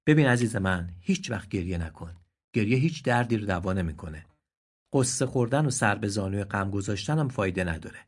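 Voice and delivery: tender, then rising sigh; consoling donkey. Acted. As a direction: comfort the crying deer. (دلداری مهربانانه)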